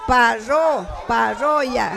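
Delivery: parroya broken off at a stressed RRO, then whole; pa-RRO, pa-RRO-ya, demonstrating the stressed middle; stress on second syllable. Shown as a demonstration. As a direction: say "Parro, parroya" leaning on RRO both times. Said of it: "en la primera o segunda sílaba".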